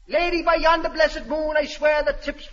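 high hammy Shakespeare declaiming; Romeo. Acted. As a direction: swear it grandly. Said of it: "read the part".

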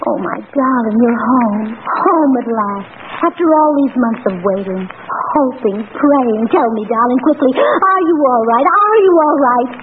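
hammed-up tearful sweetheart greeting a soldier; lightly hammed melodrama; melodramatic heroine. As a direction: overplay the longing wife at the reunion. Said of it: "give it everything you've got".

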